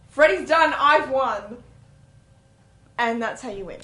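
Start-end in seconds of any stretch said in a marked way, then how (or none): 0.1-1.6 mild mock yell. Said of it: "at which point you yell".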